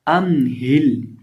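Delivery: अम हिल slow with the हा breathed from the throat. Shown as a demonstration. Teacher recites अम हिल slowly. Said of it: "हलक के आखिरी हिस्से से".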